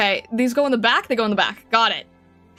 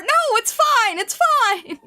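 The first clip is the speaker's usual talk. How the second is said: flustered laugh; 10 semitones higher, slower than usual. Real, not acted. Flustered reassurance, high pitched.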